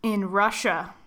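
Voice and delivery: slow, soft spooky narrator. Acted. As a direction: read it like a campfire tale. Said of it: "spooky voice".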